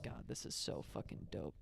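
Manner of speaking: hushed whisper. Retold or imitated. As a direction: breathe it out in awe. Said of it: "I was just like".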